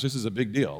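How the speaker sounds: dawning alarm in the dust storm; sober realisation. Retold or imitated. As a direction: let it sink in. Realisation in haboob.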